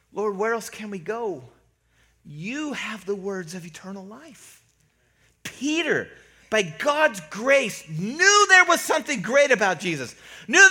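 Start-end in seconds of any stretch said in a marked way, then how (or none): 0.1-4.6 softly voiced, tender profession of faith; sweet devotion. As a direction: say it gently, as Peter to his Lord. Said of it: "great, sweet words".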